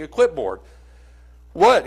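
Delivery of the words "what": a short mock yell of a name; retold yell. Young man running out of the hospital, yelling. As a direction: call out across the parking lot. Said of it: "He yells it again".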